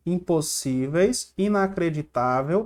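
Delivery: slow, teacherly stress on the SÍ of Impossíveis and the TÁ of inacreditável; sílaba tônica destacada. Shown as a demonstration. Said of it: "Tô destacando aqui a sílaba mais forte". (destaque o SÍ de Impossíveis e o TÁ de inacreditável)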